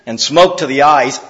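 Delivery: dramatic reading with little outbursts; read with emphasis. Shown as a demonstration. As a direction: act out the sting of each image. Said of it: "I'll read it with a little bit of emphasis".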